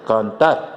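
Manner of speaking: cantar said slowly, tar stressed; slow stress demo. Shown as a demonstration. Teacher repeating cantar for students, slow and stressed on tar. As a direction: draw out cantar and hit tar. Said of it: "El tar es la sílaba tónica".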